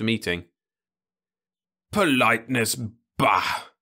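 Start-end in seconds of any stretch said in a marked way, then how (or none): 1.9-3.7 put-on higher, louder scornful old grumbler; scoffing old man. Old Osmond scorns the young man's politeness. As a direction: dismiss it with a snort.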